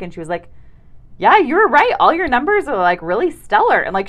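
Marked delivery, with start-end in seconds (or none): 1.2-3.8 loud, high-pitched astonishment; really surprised. Retold or imitated. Nurse confirming the patient's stellar numbers, really surprised. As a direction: imitate a nurse amazed at the results. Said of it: "she's talking like this, like, really surprised".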